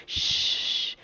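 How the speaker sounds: soft hush; shushing. Acted. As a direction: hush the crowd gently. Hushing the pretend crowd.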